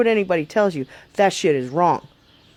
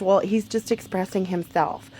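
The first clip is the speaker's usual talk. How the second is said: slow, quieter, put-on voice of a smug parent; mocking parent voice; 4 dB quieter, slower than usual. Vlogger mocks lenient parents of a screaming kid in a slow, put-on voice. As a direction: drawl it out like an indulgent parent excusing the brat. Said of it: "and the parents".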